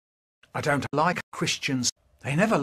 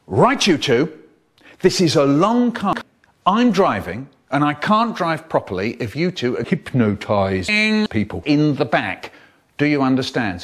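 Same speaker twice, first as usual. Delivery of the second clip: a hint of a stern mum, louder; 5 dB louder than usual. Mum warning the kids before the car trip, stern and louder. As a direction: lay down the law to the kids. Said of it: "Mum says".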